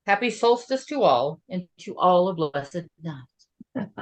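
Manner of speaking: lilting verse read aloud, pausing between lines; measured storybook recitation; storytelling poem. Acted. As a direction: read it like a holiday bedtime rhyme. Continues reading the poem.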